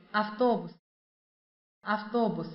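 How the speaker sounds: автобус slow and clear; slow model pronunciation. Shown as a demonstration. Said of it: "teacher models the word slowly".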